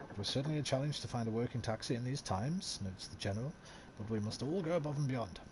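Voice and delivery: newsreader voice, lightly performed; news read. Acted. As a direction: read it like a period newspaper item. Reads in-game newspaper aloud.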